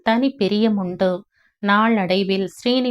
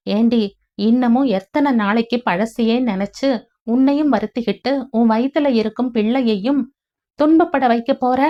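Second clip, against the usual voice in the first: angry scolding; 3 semitones higher than usual. Acted.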